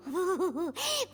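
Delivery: giddy little giggle of anticipation; quick, eager chuckle; excited giggle. Acted. Excited giggle before the meal.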